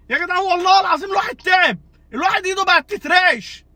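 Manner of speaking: real worn-out fan shouting his complaint; exasperated shout. Real, not acted. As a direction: shout it, fed up with the team. Exhausted fan venting. (صرخة مشجع تعبان)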